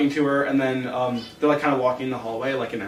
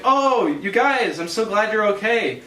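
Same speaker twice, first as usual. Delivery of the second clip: mock relief; 5 semitones higher, slower than usual. Finn greets friends at happy reunion.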